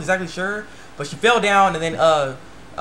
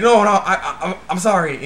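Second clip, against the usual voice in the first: acted panicked apology; 3 semitones higher, 5 dB louder than usual. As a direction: beg pardon in mock panic. Boy apologizing to angry girl.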